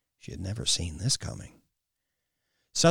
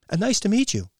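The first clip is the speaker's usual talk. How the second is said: higher, louder, forced polite greeting; flustered greeting; 12 semitones higher, 6 dB louder, faster than usual. A narrator's reading. Kylie meeting the stranger, awkward flustered greeting. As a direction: push the words out through embarrassment. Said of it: "Kylie managed".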